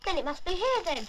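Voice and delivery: talking with food in mouth; mouth full. Real, not acted. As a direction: speak round a mouthful. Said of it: "Don't talk with your mouth full".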